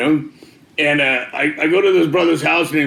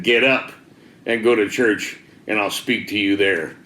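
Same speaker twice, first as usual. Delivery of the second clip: low, deliberate order, pausing after "get up"; retold command with a weighty pause; firm command; 5 semitones lower than usual. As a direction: give a measured command, not a suggestion. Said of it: "he didn't say it like a suggestion the second time".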